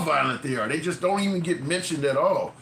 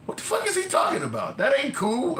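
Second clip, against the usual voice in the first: outraged shout; 10 semitones higher than usual. Retold or imitated. Buddy in the locker room shouting at a creepy remark, outraged. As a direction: yell it like the room just froze.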